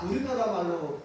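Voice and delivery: ordinary talk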